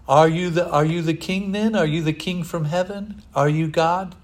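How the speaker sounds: a frustrated Pilate pressing Jesus; pressing questions. Retold or imitated. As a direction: push him for an answer.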